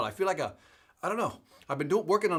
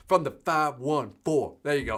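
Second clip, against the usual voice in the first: mock gangster; 2 semitones lower than usual. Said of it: "You almost gotta get gangster about it".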